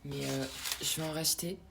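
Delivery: hushed unvoiced whisper to the viewers; confiding whisper about a snack. Real, not acted. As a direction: whisper it like sharing a secret.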